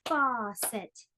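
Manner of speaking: "Faucet" in two measured beats; syllable-by-syllable "Faucet"; split into syllables. Shown as a demonstration. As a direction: clap out "Faucet" as fau, cet. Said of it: "divide words into syllables".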